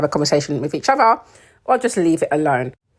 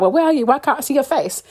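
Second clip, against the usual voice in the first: imitating a needy girlfriend; mock whiny Robin; 9 semitones higher, faster than usual. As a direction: mimic her pestering him. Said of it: "she's like".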